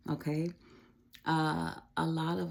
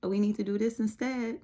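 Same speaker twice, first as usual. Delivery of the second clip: higher mom voice, lightly correcting; a light touch of a mother's gentle correction, higher; 5 semitones higher than usual. Retold or imitated. Mother gently correcting her daughter, higher pitch. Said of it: "bringing a little correction".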